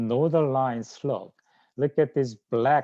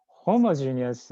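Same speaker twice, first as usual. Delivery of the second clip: homogeneous said a bit louder, on its own after a pause; emphasized word; 4 dB louder than usual. Shown as a demonstration. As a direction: set homogeneous apart and give it weight. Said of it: "I like to emphasize the word homogeneous".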